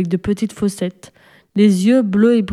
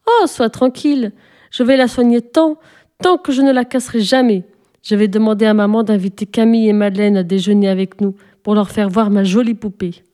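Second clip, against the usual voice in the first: lightly voiced child, eager and fast at the end; eager little girl. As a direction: promise it earnestly, then hurry. Sophie reassuring, eager.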